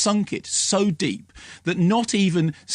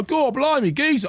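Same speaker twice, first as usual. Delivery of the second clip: much higher, hammed-up cockney geezer; mock cockney gangster; 10 semitones higher than usual. Critic mocking how gangster film characters talk, high hammed cockney. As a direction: ham up a movie gangster. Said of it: "they're like this".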